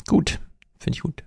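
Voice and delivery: whispered aside. Real, not acted. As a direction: say it under the breath.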